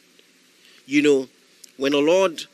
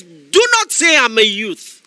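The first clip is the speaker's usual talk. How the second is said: divine rebuke; 4 semitones higher, 6 dB louder, slower than usual. Retold or imitated. God correcting Jeremiah, loud.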